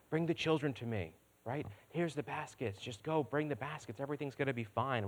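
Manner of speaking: soft, sweet mock-gentle voice; sweet gentle Jesus. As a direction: coo it like a meek, sugary Jesus. Preacher mimics sweet gentle Jesus.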